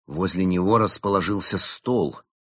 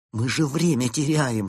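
desperate; 6 semitones higher than usual. A narrator's reading. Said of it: "с отчаянием произнёс Кирилл".

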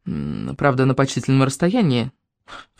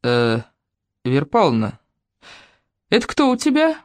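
put-on curious old man's question; puzzled elderly villager; old man asking. Grandfather asks about elephant.

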